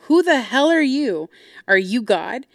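high, loud burst of indignation; retold outraged challenge. Daughter challenges dad's right to dictate, outraged. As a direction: hurl the question at him, re-enacted.

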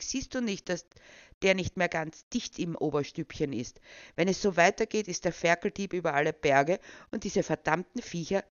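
pompous official snapping; venomous. Acted. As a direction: spit it at the pig farmer. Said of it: "giftete Marius Tweedledee Merzenbecher".

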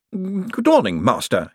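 cold, high clerk's voice; icy greeting. A narrator's reading. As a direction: greet him with ice in it. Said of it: "he said icily".

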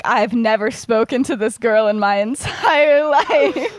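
breaking into a laugh mid-denial; laughing protest. Retold or imitated. Remus telling James he never spoke to Lily, laughing.

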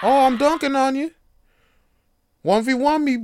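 high, loud cocky taunt; kid taunting. Retold or imitated. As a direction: challenge dad like a cheeky kid.

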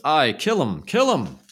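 the whole hall roaring for death; crowd shout. A narrator's reading. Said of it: "the hall rang with".

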